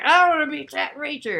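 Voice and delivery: high, loud mock whine; mocking Tom Cruise. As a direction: blurt it out like an overeager star. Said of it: "he's just like".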